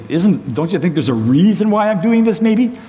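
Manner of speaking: donkey protesting to Balaam, high and indignant; talking donkey. Acted. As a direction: play the hurt, baffled donkey pleading with its master.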